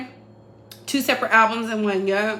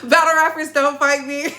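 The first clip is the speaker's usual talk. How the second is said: ordinary delivery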